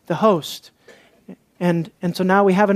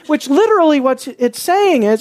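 agitated, raised pitch; worked up; 5 semitones higher than usual. Real, not acted. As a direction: explain it while still worked up. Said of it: "I'm worked up about this".

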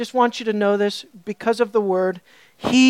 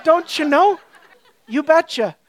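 laughing mock Canadian "Don't you know? You betcha."; a playful Canadian send-up; Canadian accent; 4 semitones higher than usual. Preacher joking with congregation in mock Canadian accent. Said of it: "boy, am I a Canadian here".

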